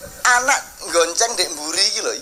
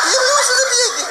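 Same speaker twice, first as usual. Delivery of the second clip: much higher, loud, half laughing; a man confused by a joke, shouting through laughter; bewildered laughing outburst; 3 dB louder than usual. Acted. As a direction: burst out baffled, cracking up. Bewildered reply in doctor story.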